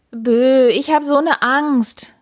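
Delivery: high, frightened whimpering wail. A narrator's reading. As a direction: howl it like a cowardly knight. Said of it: "heulte der Ritter". (ängstlich geheult)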